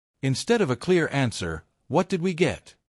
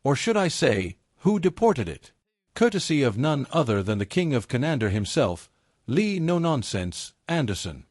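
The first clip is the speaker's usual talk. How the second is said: ringmaster. Acted. YouTube host circus-style opening.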